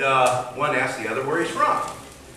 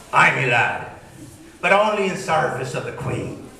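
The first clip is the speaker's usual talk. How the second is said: pirate voice. Acted. Pirate answers in joke.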